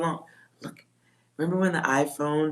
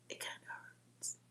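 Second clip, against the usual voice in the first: fading, tearful whisper; almost inaudible, about to cry; near tears; 23 dB quieter than usual. Real, not acted. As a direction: barely get the words out. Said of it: "I'm gonna start crying".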